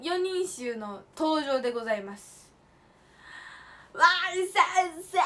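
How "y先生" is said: retold shout. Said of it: "叫びまくりました".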